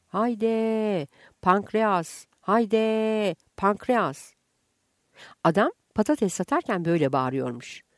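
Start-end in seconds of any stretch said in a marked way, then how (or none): 0.1-4.3 street vendor call. Retold or imitated. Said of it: "patatesçi öyle bağırınca".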